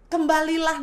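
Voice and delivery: "Kembalilah" diserukan lantang dan penuh desakan; panggilan keras memohon. Retold or imitated. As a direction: panggil anak pulang dengan suara kuat. God's call, repeated. (seruan keras penuh kerinduan)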